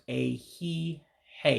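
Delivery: "a he, hey" said in parts, last I left silent; vowel dropped. Shown as a demonstration. Teacher showing learners the silent last I, syllable by syllable. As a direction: say "a he, hey" slowly with no final vowel. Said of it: "you don't pronounce".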